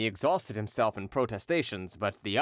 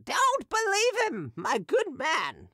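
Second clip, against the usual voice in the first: put-on drunken hawker; slower than usual. Drunken hawker taunting Derues before the crowd, high mocking voice. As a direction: taunt him gleefully like a drunk street seller.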